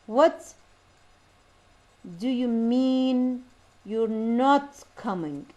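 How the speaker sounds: very slow "What do you MEAN you're NOT coming", beat by beat; rhythm demo. Shown as a demonstration. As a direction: exaggerate the stressed beats WHAT, MEAN, NOT. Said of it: "The stressed syllables over".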